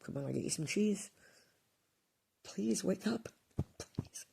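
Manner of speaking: high, loud anguished begging that climbs into a cry; desperate pleading. Retold or imitated. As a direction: beg the dead dog to wake up, voice breaking. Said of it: "I was going".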